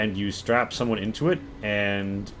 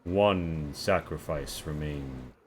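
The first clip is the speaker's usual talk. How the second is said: chip countdown voice; 6 semitones lower, 5 dB quieter, much slower than usual. Acted. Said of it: "It says one".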